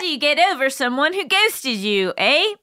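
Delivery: light mock Canadian accent, ending on a high eh. Host reading listener question in mock Canadian accent. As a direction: play up a Canadian accent, tagging eh. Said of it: "So that was Canadian".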